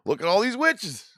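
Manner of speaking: hammed-up eager witch hunter; mock excited witch hunter. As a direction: act out delighted discovery in a high put-on voice.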